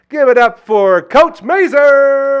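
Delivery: booming drawn-out announcer call; announcer hype. Acted. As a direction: belt out the guest's name. Host introducing guest to applause.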